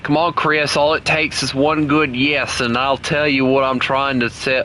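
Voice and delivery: put-on Aussie accent, pestering a friend; Australian accent. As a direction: nag playfully in mock Australian. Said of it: "keep on talking in this, uh, this accent".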